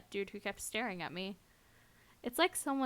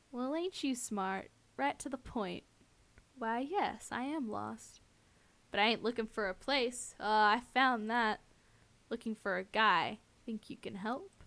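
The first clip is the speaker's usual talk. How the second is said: lightly voiced cowboy villain, drawn-out words; a touch of syrupy Western drawl; saccharine drawl. Stalker hunting a guy questions her, light saccharine drawl. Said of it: "drawling voice is saccharine venom".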